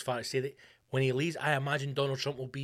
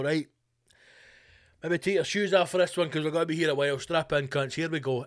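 louder, fast, gleeful build-up; mock Trump announcement; 3 semitones higher, 5 dB louder than usual. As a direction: rattle it off like a showman settling in. Trump voiced starting exposé.

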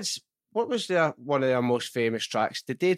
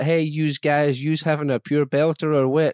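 lightly hammed-up rapper greeting the crowd; mock stage entrance; 3 semitones higher, 3 dB louder than usual. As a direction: playfully imitate a performer bouncing onstage. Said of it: "I'm picturing you bouncing onto stage like".

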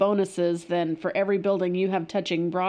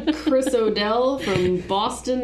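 bad Boston accent. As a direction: introduce yourself in a terrible Boston accent. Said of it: "that's the worst accent ever".

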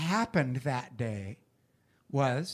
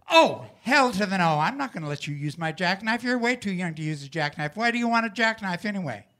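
dad refusing; 3 semitones higher, faster than usual. Retold or imitated. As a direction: brush the kid off quickly like a busy farmer dad. Father refusing son in story.

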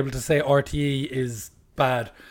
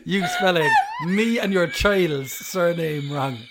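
laughing; 2 semitones higher, slower than usual. Real, not acted. Laughing while complaining.

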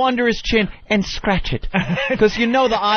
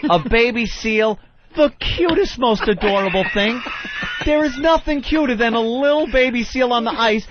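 gushing over cuteness; 5 semitones higher than usual. Real, not acted. Gushing over cute baby seal.

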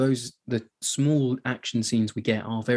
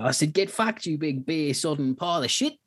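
higher-pitched mock outburst of abuse; Harry losing it; 5 semitones higher than usual. Soldier swearing at a surly sergeant major, mock angry outburst. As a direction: hurl the insult in a retold temper. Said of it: "Harry just loses it and goes".

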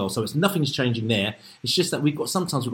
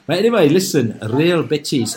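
Spanish accent; 4 semitones higher, 7 dB louder than usual. Shown as a demonstration. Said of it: "with my Spanish accent".

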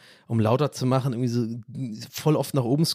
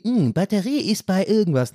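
mock device voice; 6 semitones higher than usual. Mocking headphone voice.

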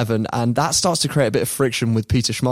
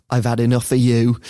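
attempted Schmeichel-style Danish-Mancunian accent; half-Danish, half-Manc accent. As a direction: have a rough go at a Danish-Manc mix. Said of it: "he's got that weird half Danish, half Manc accent".

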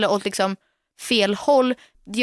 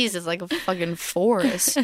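put-on grossed-out voice; a hint of mock disgust; 2 semitones lower, 3 dB quieter than usual. Real, not acted. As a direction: recoil at the thought. Disgusted comment on hair.

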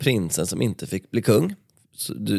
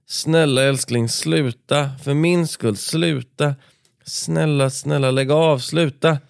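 higher, slow begging with panic; panicked pleading; 4 semitones higher, slower than usual. Acted. Sofia pleading with Carl Philip to stop fighting, higher panicked begging. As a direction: beg him to stop for her sake. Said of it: "Hon hade panik i rösten".

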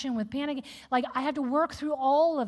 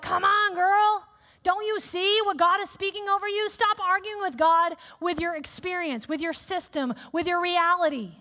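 put-on girlfriend pep talk; 5 semitones higher than usual. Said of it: "We're like".

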